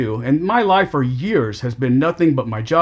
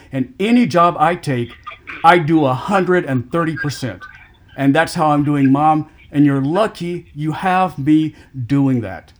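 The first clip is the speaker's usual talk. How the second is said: louder, forceful, insisting on his worth; raised voice, louder and heated, slowing on the last line; real heated outburst; 3 dB louder than usual. Real, not acted. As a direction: push back hard at the brother who never thanked you. Heated argument with his brother.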